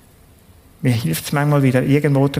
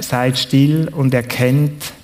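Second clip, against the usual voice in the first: very slow, stretching still, sinking low at the end; slow solemn psalm; 3 semitones lower, slower than usual. Acted. Preacher quoting God's words to the congregation, slow and solemn. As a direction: read the verse as if God speaks, very slowly. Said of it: "der Satz geht ja dann weiter".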